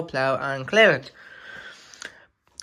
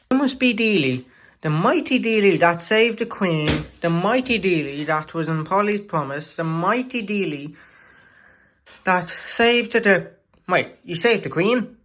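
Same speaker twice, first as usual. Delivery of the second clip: awed fan; 3 semitones higher than usual. Acted. Engine gushing over famous Dealey.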